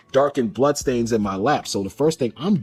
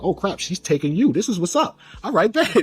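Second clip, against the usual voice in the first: higher, hyped-up retelling of his own thoughts; half-laughing, getting hyped in his head; excited inner voice; 7 semitones higher than usual. Retold or imitated. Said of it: "It was like".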